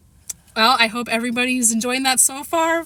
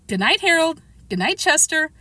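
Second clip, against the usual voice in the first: high, calmer good nights; 7 semitones higher than usual. A narrator's reading. Mother saying good night to the pets, calmer. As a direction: ease off into a calm good night. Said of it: "and then more calmly".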